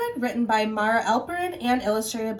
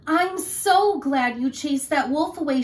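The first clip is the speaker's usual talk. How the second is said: put-on relieved girl; 5 semitones higher, 5 dB louder than usual. Little Red voiced.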